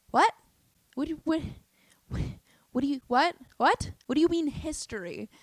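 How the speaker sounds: high, stammering acted bafflement; baffled disbelief. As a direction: trip over the question, pitch jumping up. Acts out baffled reply to her.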